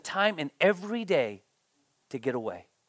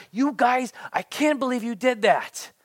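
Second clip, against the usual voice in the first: mock exasperated Moses; 7 semitones higher, 4 dB louder than usual. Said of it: "is like".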